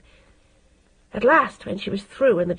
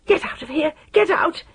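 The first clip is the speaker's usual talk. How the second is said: shriek get out; 8 semitones higher than usual. A narrator's reading. Scalded mother screaming.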